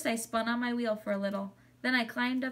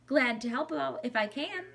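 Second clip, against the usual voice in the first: higher, squeaky little animal voice; squeaky hamster; 4 semitones higher than usual. A narrator's reading. Hamster offers to help girl teach her mom, squeaky. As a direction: squeak it out, pitched up. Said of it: "I squeaked to her".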